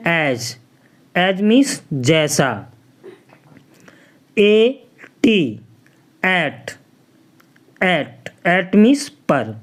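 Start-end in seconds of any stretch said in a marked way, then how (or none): 4.4-5.4 "एटी" said as separate slow letters; spelled out slowly. Shown as a demonstration. Teacher spelling a word for students, slowly. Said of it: "letter-by-letter spelling".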